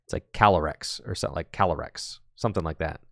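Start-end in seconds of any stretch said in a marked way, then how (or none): 0.3-1.0 Calyrex with a small rolled pause in the middle; little roll mid-name. Shown as a demonstration. Caster demonstrating the hardest Pokemon name, Calyrex with a little middle roll. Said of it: "roll or pause in the middle". 1.5-2.2 Calyrex with a small rolled pause in the middle; little roll mid-name. Shown as a demonstration. Caster demonstrating the hardest Pokemon name, Calyrex with a little middle roll. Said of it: "roll or pause in the middle".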